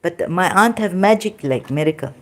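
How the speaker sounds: usual speaking voice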